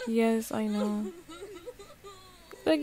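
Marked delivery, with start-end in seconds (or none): 0.1-1.1 laughing. Retold or imitated. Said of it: "She's like".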